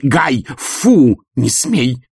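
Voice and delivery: wife scolding husband like a dog; dog-scolding command. Acted. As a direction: shoo him off like a pet.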